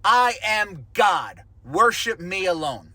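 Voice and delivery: very slow, weighty proclamation; solemn voice of God. Acted. Voicing God's commandment.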